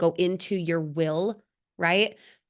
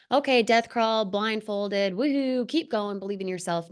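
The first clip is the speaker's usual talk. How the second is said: mock-peppy, pitched up on woohoo; cheesy cheerleading; 3 semitones higher than usual. Speaker mocking a shallow take on the scene, cheesy cheer. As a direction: parody a gung-ho motivational cheer. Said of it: "erase the cheesiness".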